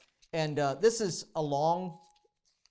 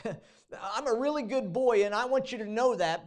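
mock self-righteous boast; 6 semitones higher, 4 dB louder than usual. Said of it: "He's like".

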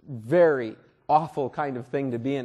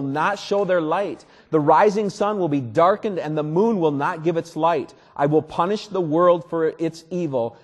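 a loud, solemn reading of the prophet's warning; scripture reading; 3 dB louder than usual. Acted. Pastor reading Isaiah to the congregation, solemn and loud. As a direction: proclaim it with weight, like an oracle of doom. Reads Isaiah thirteen aloud.

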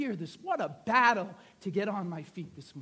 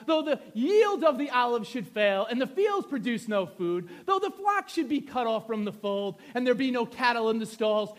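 emphatic, rolling Bible recitation; scripture reading; 8 dB louder than usual. Acted. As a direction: declaim the prophet's vow, easing at the end. Reads scripture aloud with force.

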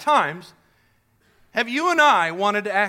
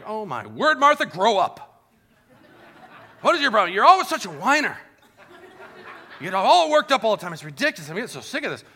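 mock harsh scolding; 3 dB louder, faster than usual. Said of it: "He wasn't like".

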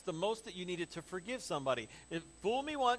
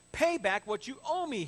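loud, higher-pitched demand; 7 semitones higher, 6 dB louder than usual. A narrator's reading. Servant to fellow servant who owes him, demanding. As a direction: insist on repayment forcefully. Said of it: "he demanded".

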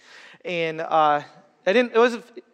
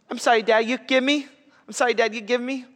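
higher, mock little girl pleading; daughter crying sorry; 5 semitones higher than usual. Dad retelling his crying four-year-old. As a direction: imitate a sobbing toddler begging.

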